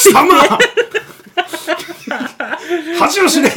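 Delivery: loud, high furious rebuke; angry shout. Pretend. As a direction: yell it like a furious drill sergeant. Mock scolding outburst.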